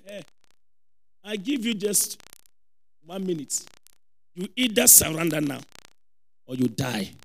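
low, soft threat in an imitated bishop's voice; quietly menacing ultimatum. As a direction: drop low and deliver a calm warning. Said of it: "when somebody speaks like this".

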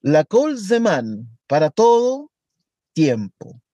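"La kol zeman" very slowly, "para todo" rising, pause, "tiempo" falling low; paused cadence. Shown as a demonstration. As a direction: let "para todo" hang before "tiempo". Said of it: "Es una pausa".

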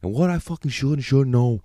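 mock New York tough guy ranting; New York accent. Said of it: "He's like this fucking New York fucking".

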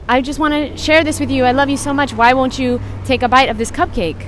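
understated teary pleading sister voice; imitating tearful sister. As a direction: plead like a hurt little sister. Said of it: "She was like".

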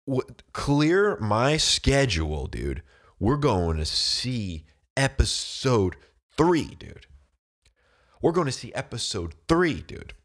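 loud, drawn-out fan hype; hyped-up excitement. Retold or imitated. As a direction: punch out each word, stretched and rising high. Re-enacting his reaction to the trailer.

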